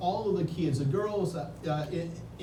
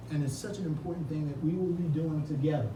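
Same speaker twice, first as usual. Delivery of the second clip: usual speaking voice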